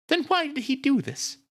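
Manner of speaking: very high-pitched, distressed questioning; grieving sister, agitated. A narrator's reading. Nita asks why Brad never mentioned despair, agitated. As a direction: plead for answers in a high character voice.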